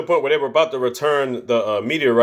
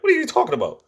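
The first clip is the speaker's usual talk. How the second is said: confused; 10 semitones higher than usual. Retold or imitated. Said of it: "We're like".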